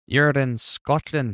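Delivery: terrible, botched put-on Scottish accent. Responding to someone who is in Scotland, in a terrible Scottish accent. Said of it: "That was a terrible accent".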